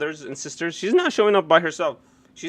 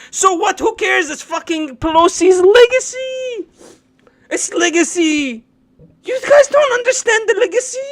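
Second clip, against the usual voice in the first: higher, louder sarcastic mock voice; mock sarcastic rant; 10 semitones higher, 7 dB louder than usual. Streamer mocking legacy talk to chat, loud sarcasm. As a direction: sneer at them loudly.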